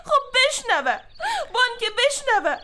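high, defiant retort. Acted. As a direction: let her hear, I don't care. Defiant reply, pitch high. (با لجبازی و صدای بلند)

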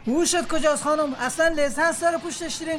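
angry driver. Acted. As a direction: tell off the careless driver who hit you. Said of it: "با عصبانیت به سمت ما آمد و فریاد زد".

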